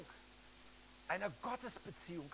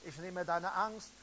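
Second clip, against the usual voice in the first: louder, pleading preaching; preacher calling the crowd forward; fervent altar call; 4 dB louder than usual. Acted. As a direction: urge them to come to the front. Altar call, urging people forward.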